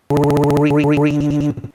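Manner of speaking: drawn-out loud call of Green; shouted name. A narrator's reading. Strict boss calling Green from across the shop, loud and drawn out. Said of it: "so he shouted".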